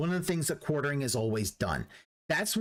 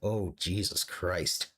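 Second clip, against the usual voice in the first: mock exasperated quote; 11 semitones lower, slower than usual. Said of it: "Derek was like".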